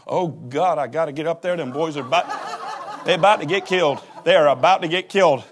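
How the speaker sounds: hammed-up mother in a panic; mild alarmed mom voice. Mother heading upstairs alarmed.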